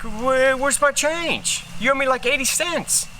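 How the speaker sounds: indignant customer. Retold or imitated. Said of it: "And they're like".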